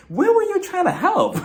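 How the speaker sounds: high-pitched, laughing challenge; squealed mock disbelief; incredulous laughing. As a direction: break into laughter on the question. Laughing disbelief at Diana's excuse.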